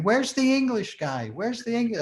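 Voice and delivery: put-on stage-door girls hunting for the English singer, excited; excited calling. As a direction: imitate eager fans calling out.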